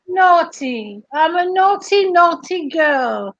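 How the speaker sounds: put-on drawn-out, playful Australian accent; bad Australian accent. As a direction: tease in a terrible mock Australian accent. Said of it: "the worst accent, Australian accent ever".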